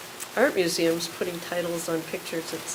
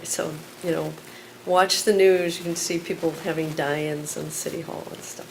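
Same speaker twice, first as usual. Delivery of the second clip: measured, pointed spoken word; poem performance. Acted. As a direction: let each number land. Performs poem Chicago by Numbers.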